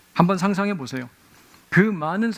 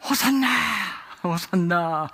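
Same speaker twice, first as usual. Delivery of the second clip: crowd shouting hosanna; 4 semitones higher, slower than usual. Retold or imitated. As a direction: cry it out like a jubilant crowd. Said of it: "무리들이 크게 외치는 거예요".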